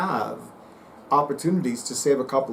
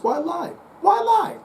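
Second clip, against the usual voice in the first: much higher, louder mock-grand catchphrase; motto catchphrase; 4 dB louder than usual. Psychic proclaiming his own motto about honesty. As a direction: sing out your motto with a flourish. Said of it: "the psychic witch says".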